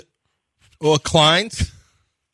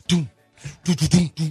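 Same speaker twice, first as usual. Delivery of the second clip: drum imitation. Radio host describing Yao Ming's drummers, imitated drum beats. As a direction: drum beats voiced as "doom".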